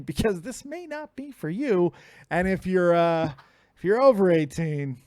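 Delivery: hyped ring announcer intro. Acted. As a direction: build the guest up like a show. Hypes guest entrance.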